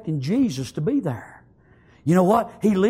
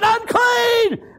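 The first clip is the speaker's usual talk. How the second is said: very high, long-held cry; screamed warning; 4 dB louder than usual. Acted. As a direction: cry it out like a desperate leper. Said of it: "they scream".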